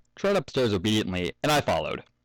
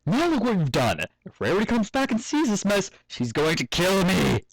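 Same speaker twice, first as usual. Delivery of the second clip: angry scolding; 10 semitones higher than usual. Acted. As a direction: tell the foals off in a panic. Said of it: "I shouted, furious".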